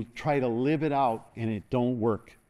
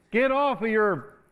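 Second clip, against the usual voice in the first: high, slow and louder; slow loud push; 10 semitones higher, 4 dB louder, slower than usual. Real, not acted. Preacher pushing the congregation to move. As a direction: drive each word home slowly.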